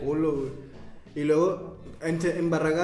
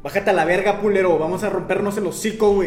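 put-on Monterrey tough accent; 3 semitones higher, 7 dB louder than usual. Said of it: "el acento golpeado".

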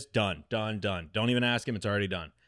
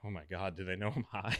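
paranoid whisper; 3 semitones lower, 9 dB quieter, faster than usual. Retold or imitated. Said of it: "and I'm like".

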